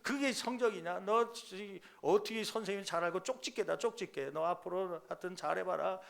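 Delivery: hammed-up nagging mom lecture; nagging mother. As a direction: imitate a mother berating her kid. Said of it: "그러면서 그렇게 막 다그치죠".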